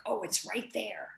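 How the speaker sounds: breathless hushed whisper; awed whisper. Retold or imitated. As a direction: whisper it as if it is almost in reach. Sensing something magnificent coming.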